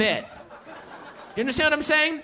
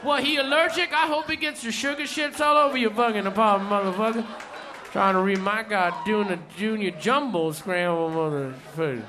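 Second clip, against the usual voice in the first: higher, rowdy storytelling rant; ranting stand-up bit; 3 semitones higher than usual. Retold or imitated. Comedian performs the friend's set, rowdy and higher. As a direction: tear into it like an angry comic.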